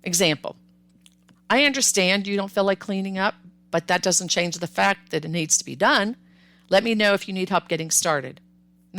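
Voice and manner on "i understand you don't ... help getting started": measured, even firm response; not mean, just firm; calm, firm parent. Acted. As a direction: hold the boundary without heat. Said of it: "firm response to say".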